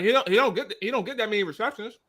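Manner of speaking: talking around ice in the mouth. Real, not acted. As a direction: mouth full of ice, words a bit thick. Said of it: "I shouldn't have done this with ice in my mouth".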